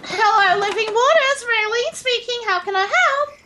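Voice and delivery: a bright put-on receptionist voice; phone receptionist greeting. Raylene picking up the hotline, chirpy receptionist voice. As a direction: answer the church hotline sweetly.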